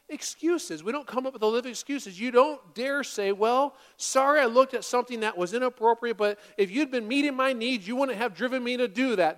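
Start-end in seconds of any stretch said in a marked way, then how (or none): 3.3-9.4 mock defensive excuse. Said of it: "That's not an apology".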